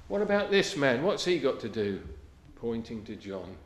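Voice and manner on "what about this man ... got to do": Peter blurting out. Retold or imitated. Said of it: "And he says".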